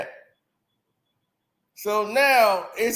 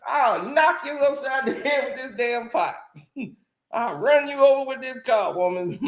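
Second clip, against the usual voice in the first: mock angry woman; 6 semitones higher than usual. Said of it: "A woman be like".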